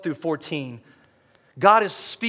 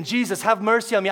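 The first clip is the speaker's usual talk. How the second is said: moderately raised, higher-pitched plea; medium volume; 5 semitones higher than usual. Shown as a demonstration. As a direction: call it out at half strength, holding back. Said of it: "it was like a medium".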